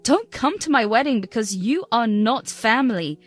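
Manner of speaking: entitled, sharp bride telling her stepmother off; bratty bride. Acted. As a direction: brush her off like she's nothing.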